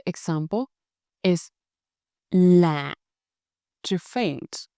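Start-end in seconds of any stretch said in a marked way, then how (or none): 2.3-2.9 LA said loud, then dipping low. Shown as a demonstration. Teacher gives thanh hỏi example, LA dipping low. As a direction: drop LA at the end without rising. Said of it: "It's a low".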